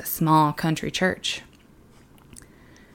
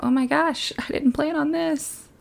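mock panic; 9 semitones higher than usual. Pretend God panicking in surprise.

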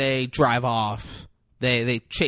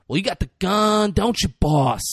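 high, loud taunt at the cop; taunting woman; 5 semitones higher, 4 dB louder than usual. Retold or imitated. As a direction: sneer the question at him.

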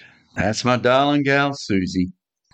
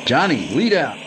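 shouting. Acted. Car chase orders.

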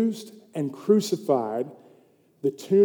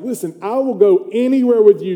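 higher, louder acted pledge; insistent vow; 5 semitones higher, 5 dB louder than usual. Disciple pledges loyalty to his teacher, insistent vow. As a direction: press the promise emphatically. Preacher voices Peter insisting to Jesus.

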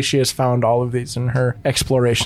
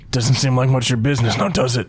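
gruff huffing badger; 3 semitones lower than usual. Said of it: "talking in weird badger voice".

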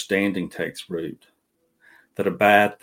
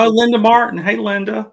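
high, loud happy hello; excited greeting; 9 dB louder than usual. Real, not acted. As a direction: greet a friend with delight. Greeting a supporter.

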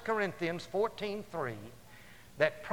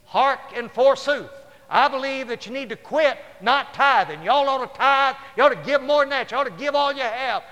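hammy stage actor; 5 semitones higher, 9 dB louder than usual. Retold or imitated. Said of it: "somebody stand up and say".

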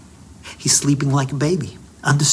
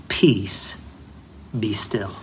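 calm command; 5 semitones lower, 5 dB quieter, much slower than usual. Retold or imitated. Jesus calms the storm.

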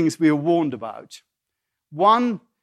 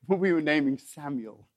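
soft, secretive hush; hushed, near whisper; 2 semitones lower, 6 dB quieter than usual. Real, not acted. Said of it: "I don't know why I'm whispering".

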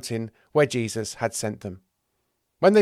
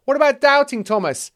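loud, high interjection; pitched-up excited offer; eager suggestion; 7 dB louder than usual. Acted. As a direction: pipe up with a bright idea. James chimes in with a suggestion.

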